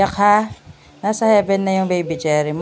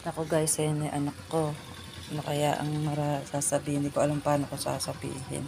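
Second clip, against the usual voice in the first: hushed aside; 4 semitones lower, 9 dB quieter than usual. Real, not acted. Parent quietly tells viewers they don't know how to break the news, hushed. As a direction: murmur it to the camera, softer.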